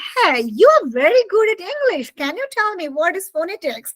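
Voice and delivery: a hint of an eager-to-know questioner; someone asking. Somebody quizzing a student on phonetics, lightly acted questioner. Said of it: "when somebody is asking you".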